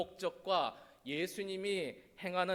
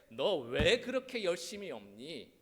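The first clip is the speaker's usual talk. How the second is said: mock scolding; 2 semitones higher, 6 dB louder than usual. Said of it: "제자들을 야단치실 때".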